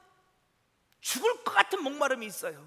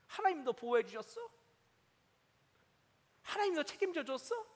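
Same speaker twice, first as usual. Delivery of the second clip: mocking enemies. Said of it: "그들이 그렇게 말해요".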